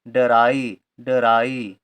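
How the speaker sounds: डराई stretched into syllables, da-rai; sounding out. Shown as a demonstration. Teacher builds up the word drive for learners, sounding it out. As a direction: spell out डराई slowly, syllable by syllable. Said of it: "आई को आई ही पढ़ेंगे".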